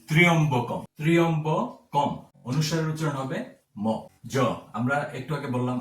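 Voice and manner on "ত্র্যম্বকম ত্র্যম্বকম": ত্র্যম্বকম sounded 'tri-yom-bo-kom', full final m; careful pronunciation demo. Shown as a demonstration. Teacher shows the correct word, ত্র্যম্বকম pronounced carefully. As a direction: model ত্র্যম্বকম deliberately, syllable by syllable. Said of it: "তাহলে এটির উচ্চারণ হবে".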